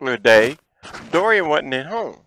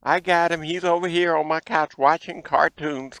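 neighbor calling out; 5 semitones higher than usual. Retold or imitated. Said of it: "she hollered out her door".

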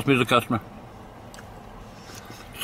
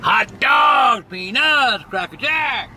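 calling out like a stadium vendor; 5 semitones higher, much slower than usual. Acted. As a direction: hawk it like a ballpark vendor. At the goddamn baseball game.

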